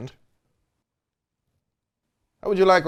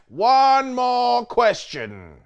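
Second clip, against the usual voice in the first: "One more question" dragged out very slowly; very slow plea; 7 semitones higher, much slower than usual. Acted. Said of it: "repeated plea".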